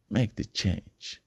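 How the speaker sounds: slow, deliberate voiced repeat of "Make the change."; slow voiced urging. Speaker pressing listeners to change, slow and voiced. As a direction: stretch each word out, no longer whispered.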